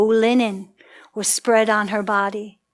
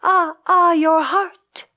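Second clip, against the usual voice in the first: high, loud voiced sigh; storyteller's aching echo; 8 semitones higher, 7 dB louder, slower than usual. A narrator's reading. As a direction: sigh back in sympathy. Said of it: "They sighed".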